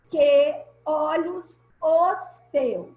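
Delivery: "que olhos os teus" said slowly, piece by piece; separated syllables. Shown as a demonstration. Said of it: "como tia Fernanda separou aqui".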